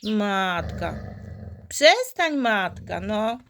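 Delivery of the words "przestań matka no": 1 sharp scolding. Real, not acted. Scolding the mother dog.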